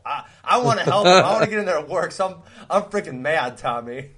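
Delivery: worked-up retold protest, easing off at the end; mock indignant. Kicked-out son pleads his case, mock indignant. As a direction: act out a frustrated kid wanting to help. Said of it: "pissed 'cause I wanted to help".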